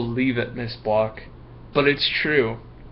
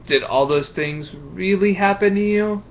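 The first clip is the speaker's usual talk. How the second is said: higher, questioning Miss Block; doubting teacher; 6 semitones higher than usual. Acted. Teacher quizzing Marco, voice raised higher. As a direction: press him for the truth. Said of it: "Then she said".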